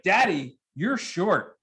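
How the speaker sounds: put-on sassy eight-year-old cutting dad down; bratty daughter. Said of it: "she's like".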